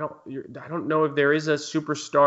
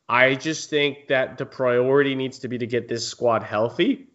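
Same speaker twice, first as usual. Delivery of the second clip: voice crack. Real, not acted. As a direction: voice cracking on healthy. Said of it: "Wow, voice crack there".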